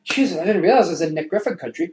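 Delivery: high, loud frantic sorry; yelping, frightened backpedal; panicked apology. Acted. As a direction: beg him to stop hitting. Panicked apology after being slapped.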